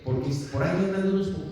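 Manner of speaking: quick, dismissive "unos poquitos"; mock misquote. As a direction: rattle off the wrong version, ending on "unos poquitos". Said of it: "Pablo no está diciendo".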